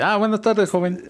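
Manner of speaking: mock formal governor greeting; polite official voice. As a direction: put on a stiff official voice. Imitating the governor in the bathroom.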